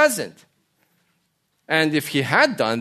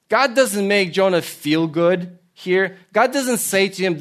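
ordinary talk, nothing marked

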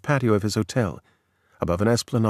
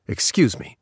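snapped retort. Retold or imitated. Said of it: "he snapped".

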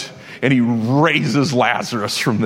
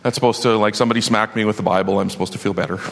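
lower, softer, half-hearted mumble of someone brushing off comfort; dismissive churchy shrug; 5 semitones lower, 4 dB quieter, faster than usual. Retold or imitated. A churchgoer shrugging off stock comfort, mumbling low and bored. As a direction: sigh it out as if the Bible just smacked you. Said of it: "you hear and you go".

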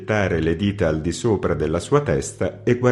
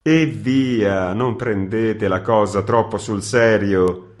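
smooth things over gently; conciliatory; 3 semitones higher, slower than usual. Acted. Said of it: "con fare conciliante". (tono conciliante e pacato)

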